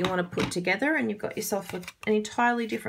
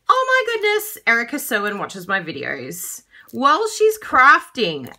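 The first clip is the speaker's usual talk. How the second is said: high, loud mock gasp of amazement; starstruck excitement; 4 semitones higher, 7 dB louder than usual. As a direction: gush in retold fangirl amazement. Retells amazed reaction to a message.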